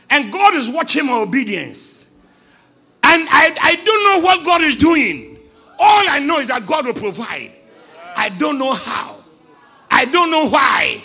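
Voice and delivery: full-force preaching, insistent repetition. Acted. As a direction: drive each line home to the congregation.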